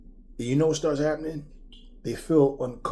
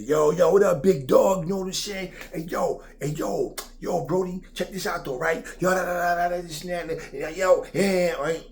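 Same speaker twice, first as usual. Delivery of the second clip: imitating a loud, pitched-up hype bro; hyped street guy; 5 semitones higher, 3 dB louder than usual. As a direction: ham up a louder, higher yo-yo street talker.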